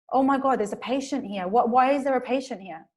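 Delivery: lightly acted worried questioning; frightened reaction. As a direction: act out a touch of startled fright. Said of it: "instantly he feels very frightened".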